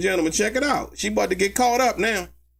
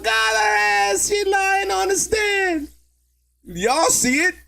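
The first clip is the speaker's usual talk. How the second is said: excited gloat; 10 semitones higher, slower than usual. Real, not acted. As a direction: call it out to the chat. Gloating to viewers.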